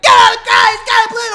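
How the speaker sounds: loud hammed-up yell; mock TSA shout. Imitating TSA yelling at him, mock shout. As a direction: bark it like frantic security. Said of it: "T S A was like".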